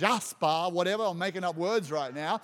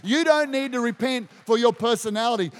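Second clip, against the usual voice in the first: DON'T pushed out louder, falling; preaching it louder; emphatic repeat; 6 dB louder than usual. Real, not acted. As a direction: hammer the point home. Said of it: "someone needs to hear that".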